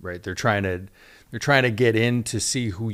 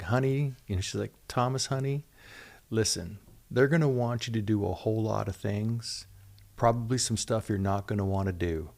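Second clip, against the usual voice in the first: mock Southern Kentucky voice, gently advising; Martha's terrible Kentucky accent; 5 dB quieter than usual. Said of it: "I'll do this terrible Kentucky accent".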